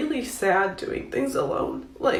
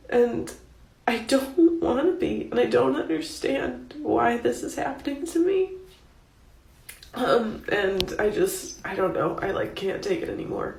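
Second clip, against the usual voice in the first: crying; 2 semitones higher than usual. Real, not acted. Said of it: "I'm still crying".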